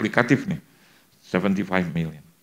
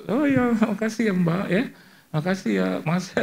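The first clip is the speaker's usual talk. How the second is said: breezy thanks; 11 semitones higher than usual. Retold or imitated. Preacher thanking the helpers after chatting, high breezy thanks. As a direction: sing out thanks in a much higher voice.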